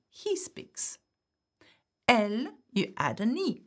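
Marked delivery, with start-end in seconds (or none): 0.1-1.0 softly whispered gloss, breath only; whispered translation. Shown as a demonstration. Teacher glossing the French for students, whispering. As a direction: drop to a whisper for the English.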